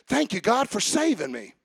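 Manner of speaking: sincere and personal, as if speaking straight to him; mean it, say it to a friend; talking to God. Shown as a demonstration. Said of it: "say it like you're talking to him".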